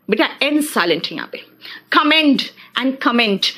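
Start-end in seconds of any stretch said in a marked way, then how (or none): 1.9-3.5 कमेंड with a hard retroflex ड at the end, comment with a clear ट; contrasting d and t. Shown as a demonstration. Teacher showing students the ड and ट ending, slow and careful. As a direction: slowly set "कमेंड" against "comment", final ड versus ट. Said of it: "ड और ट है".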